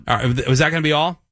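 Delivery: quick, pushy cashier; rushing drive-through worker. Acted. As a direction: hurry the customer along. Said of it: "I'll be the drive-through person".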